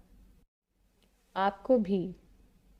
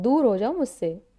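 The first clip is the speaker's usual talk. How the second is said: louder, snapped out in anger; angry; 5 dB louder than usual. Shown as a demonstration. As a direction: push him away with your voice. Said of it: "गुस्से में". (गुस्से में ज़ोर से)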